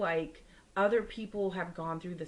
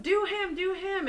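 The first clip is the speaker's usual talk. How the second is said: high, louder eager urging; 14 semitones higher, 5 dB louder, slower than usual. Retold or imitated. Girl urging the bartender to guess her man's sign, high and eager. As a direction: push her to guess him next, excitedly.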